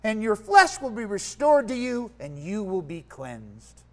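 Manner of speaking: measured, dramatic Bible reading to a congregation; reading the Bible story to the church, carefully; scripture reading. Acted. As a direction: read the passage aloud with weight. Reads scripture aloud to congregation.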